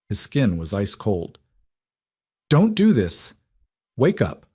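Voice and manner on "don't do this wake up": high, loud plea that softens; frightened demand. Acted. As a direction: beg him to wake, fear rising. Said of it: "she demanded, her voice losing its edge, cracking with fear".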